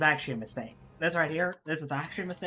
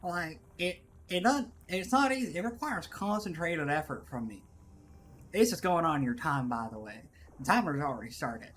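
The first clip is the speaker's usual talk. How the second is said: put-on labored Southern accent, complaining. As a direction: strain to keep up a Southern accent. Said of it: "to do this accent".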